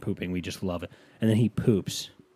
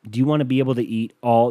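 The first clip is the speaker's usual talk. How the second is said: loud, upbeat pitchman; commercial voice; 3 semitones higher, 8 dB louder, faster than usual. Shown as a demonstration. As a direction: pitch it like an ad host. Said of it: "this is what it would sound like".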